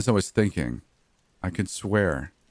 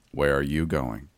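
monotone; 3 semitones lower than usual. Acted. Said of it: "he asked in the usual monotone voice".

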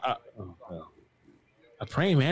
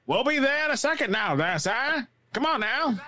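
high, hammed-up dub parody; mock dubbed voice; 12 semitones higher than usual. Gamer parodying the character's dub in a high voice.

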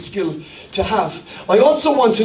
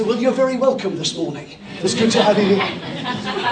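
mimicking English accent; 2 semitones lower than usual. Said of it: "I fit in".

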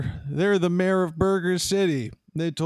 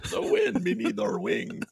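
breathed-in whispery robot voice. Shown as a demonstration. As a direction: inhale while speaking like a robot. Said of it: "You must breathe in to become a robot".

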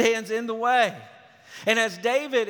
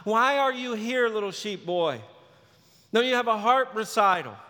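put-on scolding older brother; 4 semitones higher, 3 dB louder than usual. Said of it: "his older brother says to him".

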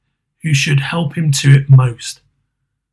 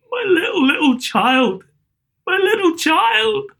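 high, slow, voice cracking with grief; father breaking down over his dead child. Acted. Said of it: "He broke down all at once".

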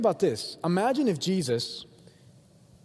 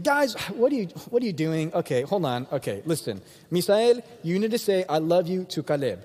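exasperated parent; 2 semitones higher than usual. Acted. Parent breaking up squabbling siblings, exasperated. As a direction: step in like a fed-up parent. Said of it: "your mom and dad walks in, he's like".

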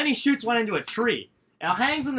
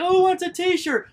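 high, drawn-out crowd hype; slow, high-pitched sing-out to the kids; calling out; 12 semitones higher, 4 dB louder than usual. Retold or imitated. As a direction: imitate a boss hollering to a crowd. Boss calling out to parade crowd.

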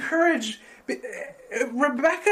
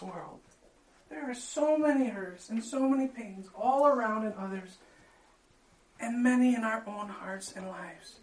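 prayer; 2 semitones lower than usual. Acted. Pastor leads closing prayer.

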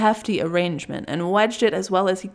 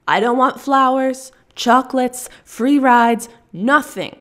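higher and louder, pressing every item; angry refusal; 4 semitones higher, 5 dB louder than usual. Acted. Russian woman refusing gifts from her stalker. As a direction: reject every gift outright. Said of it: "the Russian says".

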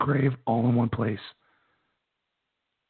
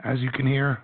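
raspy, hoarse voice; losing his voice, rough and raspy; slower than usual. Real, not acted. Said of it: "sounds absolutely terrible".

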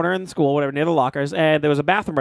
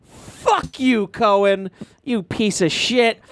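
higher, half-acted teenage insult, the end dragged slow; retold angry outburst; 4 semitones higher, much slower than usual. Retelling how he snapped at a classmate, mock furious. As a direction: spit it back at the bully, slowing on the last words. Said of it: "I was like".

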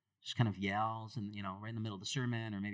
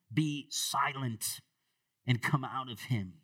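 rebuke; 3 dB louder, slower than usual. Acted. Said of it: "Jesus rebuked him".

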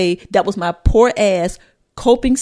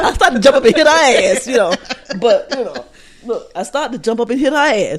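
laughing; 2 semitones higher, 3 dB louder, faster than usual. Real, not acted. Laughing while retelling.

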